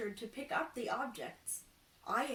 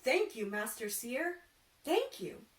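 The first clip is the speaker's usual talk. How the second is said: grateful; 3 semitones higher, 5 dB louder than usual. Acted. Carpenter thanking the seer, gushing thanks. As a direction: gush with gratitude.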